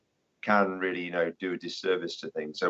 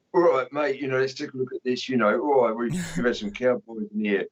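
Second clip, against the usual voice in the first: Podshift demon; 5 semitones higher than usual. Retold or imitated. Imitating the narrator's foreman demon, hammed-up character voice. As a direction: lay into a matey builder character. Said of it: "he was laying into the character".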